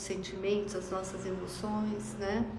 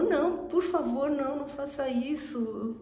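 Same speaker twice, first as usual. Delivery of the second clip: terrified plea; 5 semitones higher than usual. Retold or imitated. The servant begs the king not to sell his family, mildly frightened. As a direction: plead for mercy in mock terror.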